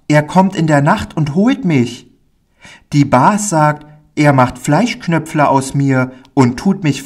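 put-on high child voice, rushing then dropping into fear; a small boy dreaming of the circus, then remembering his dread; eager little boy. Pauli tells the stranger about the circus in a high, eager child voice.

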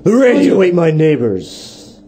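slow radio slogan; measured mock jingle line; slogan read. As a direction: announce it slowly as a station tagline. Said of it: "We can use that as a slogan".

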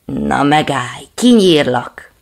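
loud, slow angry threat; big dog growling a threat; barked threat. Acted. Big dog threatens the dog in the water, loud. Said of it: "ugatott a nagykutya".

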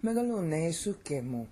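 Megalune sukemu stressed on LU and SU; correct Greek stress. Shown as a demonstration. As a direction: recite "Megalune sukemu" with SU leading, ke light. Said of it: "it's suke".

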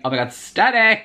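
high-pitched mock gasp of awe; mock swooning. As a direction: pretend to be dazzled. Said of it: "I would not be saying".

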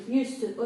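"used to" said smoothly as one word; joined used to. Shown as a demonstration. Teacher repeats "used to" run together. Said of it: "Кажуть просто все разом".

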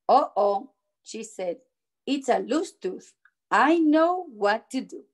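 measured read-aloud with stressed key words; storybook narration. A narrator's reading. Teacher reading a picture book to children, storybook narration. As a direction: read it out carefully to young children.

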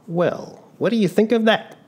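high, loud amazed cry; loud exclamation. Acted. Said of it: "Giovannino exclaimed loudly".

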